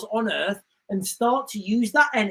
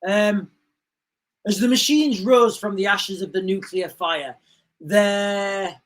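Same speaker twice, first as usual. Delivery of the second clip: movie intro narration; 3 semitones lower than usual. Acted. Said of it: "the beginning thing on the Terminator".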